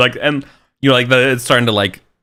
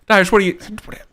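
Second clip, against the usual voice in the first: scolding groom; 2 semitones higher, faster than usual. Retold or imitated. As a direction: tell the Irishman off, pitched up. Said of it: "you know".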